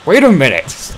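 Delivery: calling out. A narrator's reading. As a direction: shout after him to stop. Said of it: "called Saïx".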